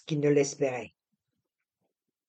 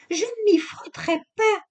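whispered aside; 3 dB louder than usual. A narrator's reading. Aside inside Camille's speech.

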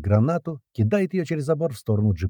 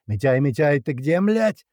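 calling out, rising high at the end; urgent shout; 5 semitones higher, slower than usual. A narrator's reading. Fighter searching for comrade under fire, urgent call. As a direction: call for a missing comrade, pitch climbing. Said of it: "кричит Клёпа".

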